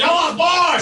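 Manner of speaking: high-pitched mock yell; imitated yelling. Comic imitating a man walking around, mock yelling. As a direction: call it out high, without full volume. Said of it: "walks around yelling".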